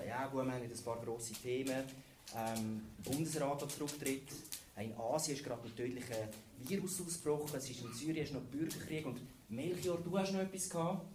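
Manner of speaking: lightly voiced weary chief editor; bored editor. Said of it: "der Chefredakteur ist so da gesessen".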